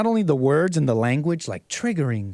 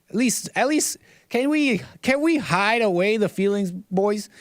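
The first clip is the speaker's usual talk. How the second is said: mock plea; 3 semitones higher than usual. Host begs the boys to hide away feelings, mock-pleading. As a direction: plead with them, half-joking.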